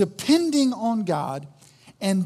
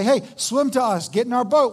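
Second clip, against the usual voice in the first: calling out; 2 semitones higher, 4 dB louder than usual. Acted. Deputies shouting to a stranded man, calling out. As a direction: call over to a stranded man.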